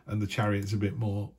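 ordinary talk

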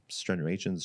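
"striations" fumbled with an extra N, like "stren-yations"; mispronounced word. Real, not acted. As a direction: stumble on "striations" as "stren-yay-shuns". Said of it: "whatever the fuck".

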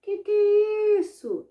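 high incredulous protest; can't believe your eyes; astonished disbelief. Acted. Boy astonished at singing poop. (espanto agudo e indignado)

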